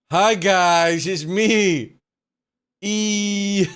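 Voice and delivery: goofy falsetto giggling through it; hammed-up high voice.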